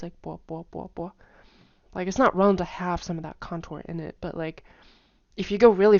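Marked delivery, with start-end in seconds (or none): 0.2-1.1 "bo" said quickly with a slight rise each time; quick drilled "bo" with a rise; fast rising bo. Shown as a demonstration. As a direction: rush through "bo bo bo" keeping a little rise. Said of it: "say it fast and have that, like, rise".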